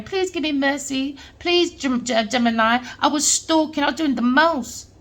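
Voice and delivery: a hint of a sobbing beggar; mock begging. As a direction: imitate her pleading for mercy, half-hearted. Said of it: "Look at her crying".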